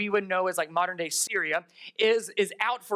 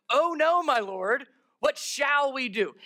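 lightly acted cry of dismay, raised pitch; mild dismay; 4 semitones higher, slower than usual. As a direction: read the servant's alarm with restraint. Reads servant's panicked line aloud.

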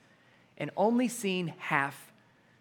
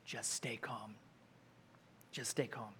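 calm, hushed reassurance; 9 semitones lower, 20 dB quieter than usual. Acted. Moses quietly calming the panicked Israelites, hushed. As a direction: soothe a panicked crowd gently. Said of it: "you can kinda hear a little bit of that keep calm and carry on".

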